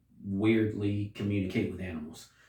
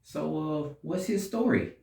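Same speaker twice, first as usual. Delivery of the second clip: much higher, mock-wowed audience voice; impressed crowd; 9 semitones higher than usual. Reviewer imitates the crowd watching Kraven, mock amazement. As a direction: play an audience gasping at the hero. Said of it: "get the crowd to be like".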